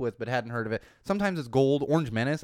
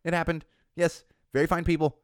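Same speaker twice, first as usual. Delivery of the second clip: 1 heated insistence; 5 semitones higher, 5 dB louder than usual. Real, not acted. Heated rebuttal about the video.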